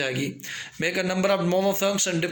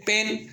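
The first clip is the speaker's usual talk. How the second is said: पेन said in one go; पेन as one unbroken beat; one syllable; 4 semitones higher, slower than usual. Shown as a demonstration. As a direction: say पेन in a single quick push. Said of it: "एक झटके से कह दिया".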